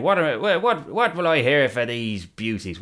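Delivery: light Irish pirate auctioneer; Irish accent. Retold or imitated. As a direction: auction them off in an Irish lilt. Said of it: "Why is he Irish?".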